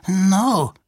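small, high, scared answer; frightened. A narrator's reading. Two-Tone denying it to the stranger, frightened. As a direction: say it high, in fear. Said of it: "schüttelte verängstigt den Kopf".

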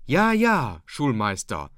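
high, loud mock of the fawning dike reeve; father mimics the dike reeve praising the schoolmaster, hammed-up and high. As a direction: ham up the dike reeve nodding along. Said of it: "und sagt".

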